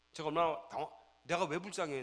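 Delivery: loud, high, flustered; a shocked father's loud cry; startled. Retold or imitated. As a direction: blurt it out in shock. Father shocked by son's words.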